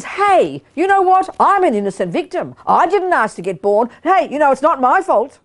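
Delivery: mock whiny innocent victim; hint of a self-pitying ego; ego's voice. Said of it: "That's how ego talks".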